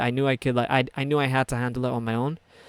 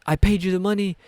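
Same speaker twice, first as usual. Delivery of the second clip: imitating an indignant customer, pitched higher; mildly heated retold protest; arguing; 4 semitones higher, 4 dB louder than usual. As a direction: protest as if wrongly accused. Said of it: "he's arguing to the manager in Dutch".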